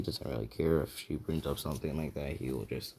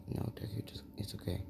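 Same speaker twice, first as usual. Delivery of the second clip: soft, higher hushed reassurance; soothing; 4 semitones higher, 7 dB quieter than usual. Acted. Girls calming an upset Deku, soothing. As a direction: hush him gently, almost whispered.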